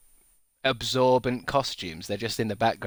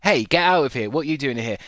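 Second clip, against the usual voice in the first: mock shout; 4 semitones higher, 5 dB louder than usual. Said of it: "and then I go".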